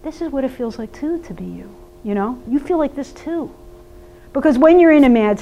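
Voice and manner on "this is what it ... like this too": put-on softer, gentle words to one child; quiet aside. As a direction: say it softly so only the mad kid hears. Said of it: "I said quietly to the".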